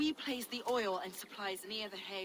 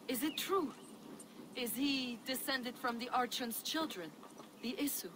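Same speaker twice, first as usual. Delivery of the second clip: higher, eager questioning; 5 semitones higher than usual. Acted. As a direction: lean in, hungry for the answer. Priest eager about gods.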